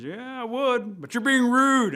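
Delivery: high, loud rebuke peaking at the end; indignant scolding. Acted. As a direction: tell them off, leaning on the last word. Bear scolds Rabbit.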